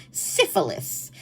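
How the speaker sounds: slow breathy whisper of the word Syphilis. Shown as a demonstration. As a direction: whisper Syphilis slowly and drawn out. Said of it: "that's what it was".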